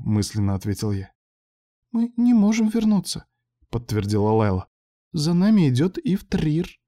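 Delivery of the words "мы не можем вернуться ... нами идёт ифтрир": sense the hunter coming; frightened Layla. A narrator's reading. Layla insists.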